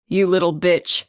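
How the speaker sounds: Mother shrieking at her daughter; a touch of a raging shriek. A narrator's reading. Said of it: "Mother shrieked".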